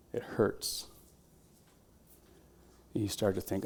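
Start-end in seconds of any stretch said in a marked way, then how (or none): 0.1-0.9 tired whisper. Pretend. Exhausted runner in imagined race.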